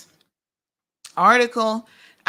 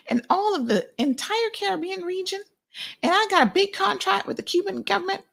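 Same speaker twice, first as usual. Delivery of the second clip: much higher, boastful mock voice of a smug businessman; mocking John Felder; 10 semitones higher than usual. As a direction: pitch it way up and brag like a con man. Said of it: "he can walk up to you and say".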